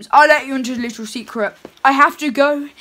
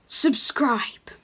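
soft unvoiced whisper; 3 semitones lower, 6 dB quieter than usual. Santa reminding viewers to subscribe in a whisper. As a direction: breathe it like a secret.

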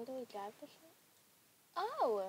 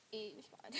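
whisper; 6 dB quieter than usual. Real, not acted. Aside while laughing at game.

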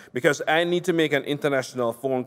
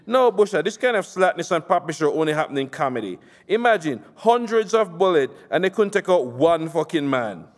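angry politician; 5 semitones higher than usual. Acted. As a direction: chew him out for the failed hit. Nasser ranting on phone.

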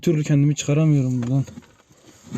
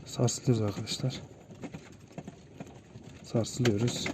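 hushed and scared; 4 semitones lower, 13 dB quieter than usual. Real, not acted. Trapped as shaking returns.

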